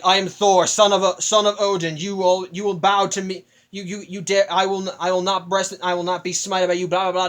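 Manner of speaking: lightly hammed-up pompous god voice; mock gravitas Thor. Reviewer mocking Thor's solemn threats to Surtur, pompous. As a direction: proclaim it like a grand god, half in jest. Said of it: "he's kind of lost the whole gravitas".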